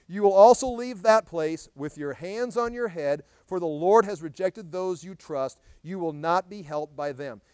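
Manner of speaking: loud, slow proclamation; scripture reading. Acted. Preacher reading Jeremiah's rebuke to the congregation, loud and slow. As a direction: declaim the verse slowly, with force.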